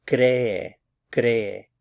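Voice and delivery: "cree" as CRE-e, strong start, falling; teacherly CRE-e for "cree", two separate takes; stress on first syllable. Shown as a demonstration. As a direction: punch the "cre" in each "cree". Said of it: "stress on the cre".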